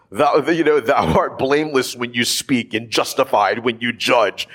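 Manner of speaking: a hint of old-fashioned, lofty prayer tone; mock King James prayer voice. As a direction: lightly intone it like Shakespearean scripture. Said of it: "that's how you pray".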